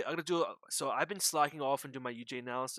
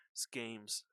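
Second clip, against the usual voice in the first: whispered; 2 semitones lower, 8 dB quieter than usual. Real, not acted. Sigh then resigned aside.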